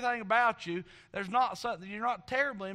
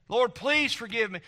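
firmer, more insistent plea to God; retold prayer of repentance; 3 semitones higher, 3 dB louder than usual. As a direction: press the plea for forgiveness with preacher's force. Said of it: "had to go to Jesus and".

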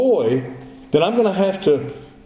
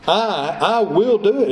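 acted eager acceptance, lifting in pitch; lightly hammed-up keen, emphatic yes; mildly excited; 4 semitones higher, slower than usual. Preacher voicing the kinsman taking the deal, mildly excited. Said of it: "It's almost like he's excited".

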